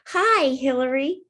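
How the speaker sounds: high, bright-eyed greeting from a tiny friend; dragonfly friend calling at the window; little dragonfly voice. A narrator's reading. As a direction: chirp hello through the window.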